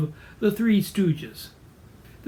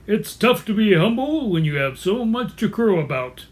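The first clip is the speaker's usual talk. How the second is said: lightly voiced braggart; a touch of pompous boasting; Charles the Rooster; 3 dB louder than usual. Braggart rooster boasting, lightly pompous character voice. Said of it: "He is a braggart and a pseudo-intellectual".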